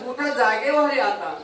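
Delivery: calling out उठा, जागे व्हा रे आता as a firm summons; saints' wake-up call. Retold or imitated. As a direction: rouse the sleepers with a clear call. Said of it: "आमचे संत म्हणतात".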